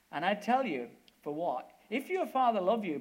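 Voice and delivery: de duivel die Billy luid treitert; taunting devil. Retold or imitated.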